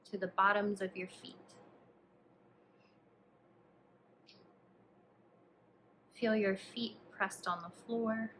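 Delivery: calm, hushed instructions, leaving space to breathe; guided meditation. Acted. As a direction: guide the listener gently through a body scan, unhurried. Leads a body scan meditation.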